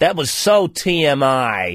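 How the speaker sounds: put-on very slow, drawn-out American accent. Repeating the other speaker's phrase in an imitated American accent. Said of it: "We're just trying to do an American accent".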